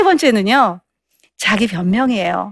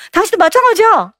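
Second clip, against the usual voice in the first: pitched up high and louder; defensive snap; 9 semitones higher, 4 dB louder than usual. Acted. Husband snapping back at his wife to defend himself. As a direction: throw the blame right back. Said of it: "이렇게 이제 변명하는 거예요".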